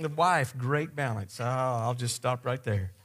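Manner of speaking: normal talking voice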